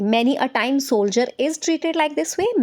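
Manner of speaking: very slow, each word spaced; slow classroom dictation. Shown as a demonstration. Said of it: "इस तरह से बोल सकते हो".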